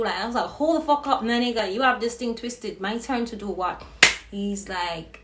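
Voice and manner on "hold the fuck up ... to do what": retold shouting. Woman shouting back at a stranger in her bed. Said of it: "So I'm start shouting".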